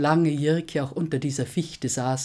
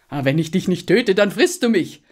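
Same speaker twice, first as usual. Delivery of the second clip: wary hunter; 5 semitones higher, 6 dB louder than usual. A narrator's reading. Hunter answers the dragon.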